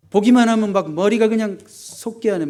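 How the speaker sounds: high, loud mock fury, the words pushed out hot; voicing the rage that makes your blood boil; acted fury. Pastor acting out David's rage at his enemy, loud and heated. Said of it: "원수에 대한 분노".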